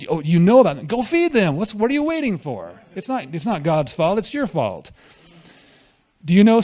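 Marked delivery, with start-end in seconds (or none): 0.1-4.9 retold snapping back. Preacher retelling his reply to someone blaming God, mildly snapping. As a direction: push the blame back, lightly indignant. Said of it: "I snapped".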